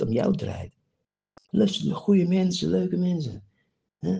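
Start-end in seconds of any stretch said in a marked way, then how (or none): 1.5-4.1 mocking imitation. Imiteert de ander.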